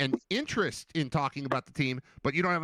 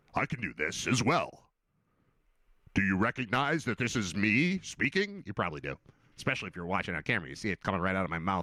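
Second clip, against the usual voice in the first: very deep, low put-on bass voice; 7 semitones lower than usual. Standing in for a missing announcer, talking in a deep voice. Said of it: "In a deep voice".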